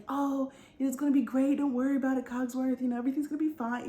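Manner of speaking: cheerful, carefree and breezy; joyous Lumiere. Acted. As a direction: play him lightly, full of joy. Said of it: "so happy and so joyous and full of life".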